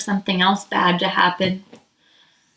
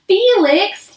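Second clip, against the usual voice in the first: a raised, sharp call of the name; mild mock yell; 7 semitones higher, 4 dB louder than usual. Mom scolding her son, a light mock yell. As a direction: call him out like a cross mom. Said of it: "yelled his mom".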